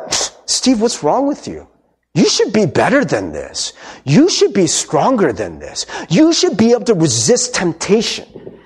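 a hint of a nagging inner voice, the "Psst" whispered; lightly voiced accusing conscience; condemning inner voice. Pastor imitates the voice that shames him, lightly mock nagging. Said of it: "isn't that the condemning voice".

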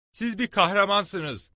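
high, loud, slow exclamation of praise; excited admiration. Acted. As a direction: hail a hero, drawn out and ringing. Narrator praises the hero's brave act. (hayranlıkla, yüksek sesle, coşkulu)

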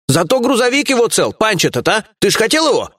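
high-pitched, eager exclamation; exclaiming. A narrator's reading. Lieutenant distracts the boss with the truck, exclaiming eagerly. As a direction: blurt out good news to placate the boss. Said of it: "порученец воскликнул".

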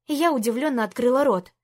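ordinary delivery, nothing marked

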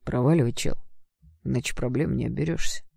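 offhand warning over the shoulder; lazy brush-off. Acted. Friend lazily warns the would-be defender off, offhand. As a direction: toss it off without caring. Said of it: "лениво кинул через плечо".

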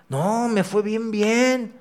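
lightly voiced gloating businessman; smug self-congratulation. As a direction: mimic your old smug self brushing it off. Preacher mimics his smug self.

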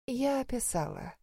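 tired, soft and drained; weary tone. A narrator's reading. Mother answers her daughter with tired reluctance, softly. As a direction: say it wearily, barely bothering. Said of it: "усталым тоном заявила мать".

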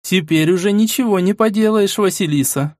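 high, gentle soothing woman; calm her friend down gently; conciliatory. Acted. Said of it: "всё так же примирительно проговорила Ирина".

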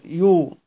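يو held as a "yuu" syllable; damma demonstration. Shown as a demonstration. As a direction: isolate يو with its u vowel. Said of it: "قراءة الهاء بالضم على المجاور". (يو بضم الياء)

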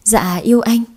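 a hushed, bashful yes to her lover; whispered reply. Acted. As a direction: breathe it back shyly.

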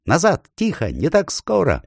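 high sharp shouted orders. A narrator's reading. The ape halts the rushing beasts, high shouted orders. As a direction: stop them in their tracks. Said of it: "Хитр закричал".

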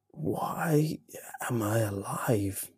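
slow creaking whisper. A narrator's reading. Half-grown creature asking why it lives, creaking whisper. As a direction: let the question creak out slowly. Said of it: "in its creaking tone".

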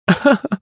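short high giggle; a quick delighted laugh; amused laugh. A narrator's reading. Princess laughs at the parrot, short giggle. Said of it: "воскликнула Меньшикова".

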